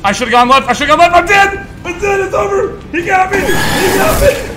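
high, loud desperate yelling; panicked screaming. Real, not acted. Player caught by the monster, desperate screaming. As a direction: yell in despair as you're caught.

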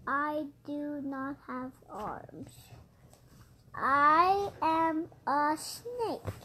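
low, slow snake character. Pretend. Child voices a snake character.

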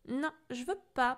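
whiny protest. Acted. Boy pinned to the wall, protesting. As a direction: plead against it. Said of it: "protesta Pierre".

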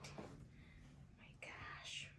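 drawn-out breathy whisper of awe; slow whisper. Real, not acted. Opening the gift box, slow awed whisper. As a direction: barely voice it, slowly, in wonder.

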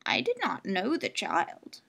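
put-on slow old crone voice; old woman. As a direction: answer slowly like an old woman. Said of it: "said the old woman".

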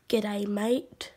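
Australian greeting. Shown as a demonstration. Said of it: "'cause I'm from Australia".

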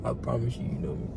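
whisper. Real, not acted. Teasing the blindfolded guest.

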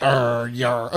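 low pirate growl. Pretend. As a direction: grumble like a pirate. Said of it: "You gotta talk more like a pirate".

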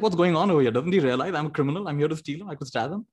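mock bewilderment, voice starting up high; baffled kid. Robber puzzling over the generous man, fading bafflement. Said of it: "Kid is like".

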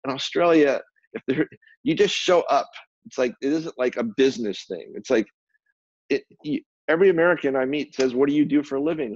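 a hint of a scornful friend; retold Australian friend's jab. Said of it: "She goes".

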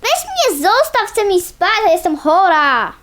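whiny high protest, leave me alone; cranky complaint. Acted. Sick pony telling friend to leave her be, cranky whine. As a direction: push them away, grumpy and sick.

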